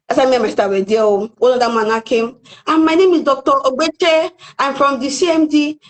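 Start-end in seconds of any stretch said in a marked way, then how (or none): 2.7-5.8 slow, high self-important intro; slow pompous doctor voice. Retold or imitated. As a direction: announce yourself grandly, slowly. Voicing the doctor introducing himself.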